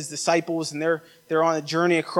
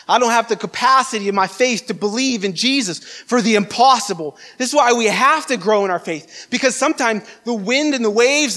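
urgent sermon voice, pitched up; impassioned preaching; 4 semitones higher than usual. Real, not acted. Preacher urging the church to grow in faith, impassioned. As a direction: urge the congregation with conviction.

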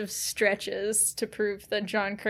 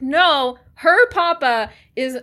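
mock indignant rant; 3 semitones higher, 6 dB louder than usual. Ranting at Brennan in imagination.

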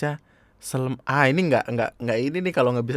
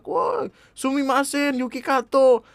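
high, building yells of fake Japanese; mock shouting; 11 semitones higher, 6 dB louder, slower than usual. Japanese guests stuck in the lift, mock shouting. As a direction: holler like a trapped guest in a comic sketch. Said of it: "Orang Jepangnya teriak-teriak".

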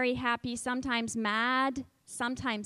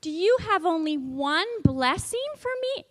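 raised, pleading ask; teacher voicing Esau for children; pleading question; 4 semitones higher, 4 dB louder than usual. Shown as a demonstration. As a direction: beg the father for more. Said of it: "Can you say that?".

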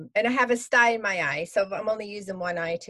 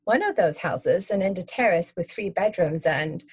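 calm storyteller reading a memoir; story narration; 3 semitones lower than usual. Acted. Author reads her prologue aloud.

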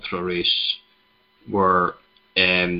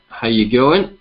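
put-on rubbish half-Scottish half-Australian accent, a touch higher; 4 semitones higher, 5 dB louder, slower than usual. Podcast host greeting Australian listeners in a bad Australian accent. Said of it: "half Scottish, half Australian accent there".

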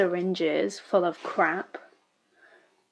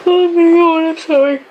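startled outburst; 8 semitones higher, 12 dB louder than usual. Real, not acted. Sudden startled outburst at screen.

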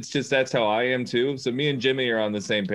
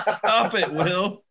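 laughing protest, higher; 7 semitones higher, much slower than usual. Real, not acted. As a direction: giggle out the plea. Laughing at the joke.

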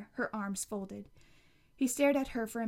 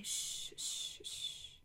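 soft whispered hush; whispered shush; 10 dB quieter, much slower than usual. Acted. Grandma soothing her sick daughter, whispered shush.

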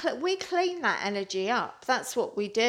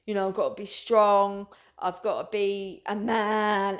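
a hint of a tough guy talking himself into being strong; mock tough bloke. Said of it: "men think".

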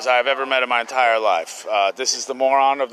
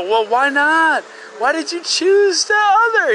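mock dumb bro voice; 11 semitones higher, 4 dB louder, slower than usual. Retold ignorant younger self continues.

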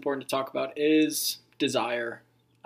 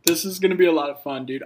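too much caffeine; 2 semitones higher, 4 dB louder, much faster than usual. Real, not acted. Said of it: "really wired on coffee right now".

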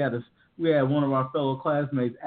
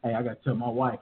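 lightly acted dread, low and hushed; mock sinking realization, dropped low and soft; Kev; 4 semitones lower, 5 dB quieter than usual. Host imagines Kev reading the ransom text, lightly acted low dismay. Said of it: "Kev was like".

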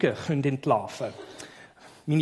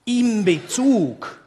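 "In Bezug" slowed and raised; slow emphasis; 6 semitones higher, 5 dB louder, much slower than usual. Shown as a demonstration. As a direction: stretch out "In Bezug". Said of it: "emphatic key phrase".

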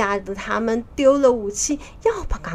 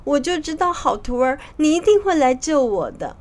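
higher-pitched, lightly acted relief; tearful joy; 5 semitones higher than usual. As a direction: voice overjoyed relief through drying tears. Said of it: "高兴坏了， 抹抹眼泪说". (略带喜极而泣、音调偏高)

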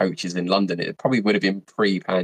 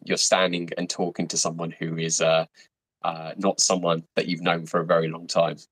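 usual speaking voice

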